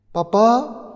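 put-on very high, loud child's cry; a frightened little boy crying out for his dad; child calling papa. Boy answers on radio.

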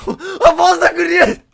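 very high, loud laughing squeal; shrieking laughter. Real, not acted. Streamer cracking up at a girl's voice, high laughing shriek.

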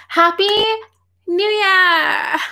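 high, drawn-out New Year wish; playful festive greeting. Real, not acted.

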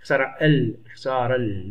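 اختار ال joined as ikhtaara-l, no stop before L; linked, hamza dropped. Shown as a demonstration. Teacher showing an unspoken linking hamza, اختار ال run together. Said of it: "لم وصل لا أنطقها".

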